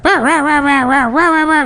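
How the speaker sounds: very high yappy barks; imitated dog yapping. Old toothless Maltese answering with high yaps. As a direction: yap like a tiny old dog. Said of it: "then she'd be like".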